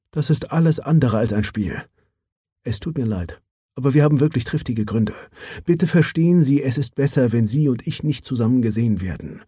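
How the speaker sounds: lightly voiced businesslike woman; Mara Johansson. Mara insists, urgent. (sachliche Frauenstimme, leicht angehoben)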